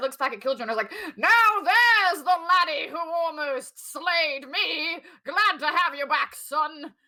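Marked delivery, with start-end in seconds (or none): 1.2-6.9 delighted laughing character voice, higher and louder. Voicing a character who looks back at Killjoy, laughing delightedly. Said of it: "laughing, like, very delightedly now".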